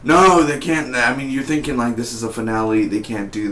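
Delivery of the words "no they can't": shocked cry. Retold or imitated. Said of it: "I was like".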